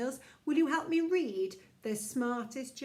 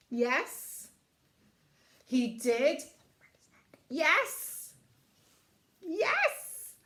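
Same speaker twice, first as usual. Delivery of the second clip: put-on kids show host. Leading kids' memory game.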